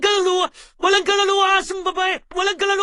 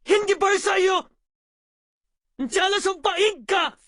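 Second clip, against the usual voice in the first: scolding parent. Acted. Parent scolding crying child.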